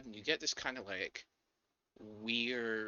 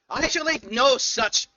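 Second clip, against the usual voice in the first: high, loud yell from far away; distant yelling; 13 dB louder, slower than usual. Acted. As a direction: shout it as if from a distance. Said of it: "yelling in the distance".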